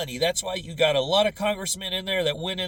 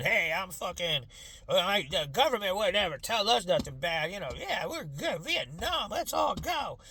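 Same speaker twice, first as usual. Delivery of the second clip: rising into a mock rallying shout; mock boomer. Mocking boomers' blind trust in the government, gung-ho. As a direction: ham up a gung-ho boomer heading to war.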